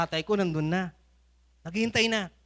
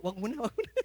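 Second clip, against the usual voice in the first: inner thought; 3 semitones higher, 7 dB quieter than usual. Retold or imitated. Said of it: "sa isip-isip ko".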